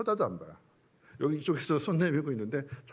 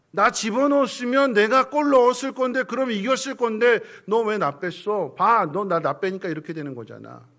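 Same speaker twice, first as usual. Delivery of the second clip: resentful striker; 6 semitones higher, 9 dB louder than usual. Retold or imitated. Preacher voicing a benched striker blaming his coach, loud and bitter. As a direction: throw the blame back at the coach.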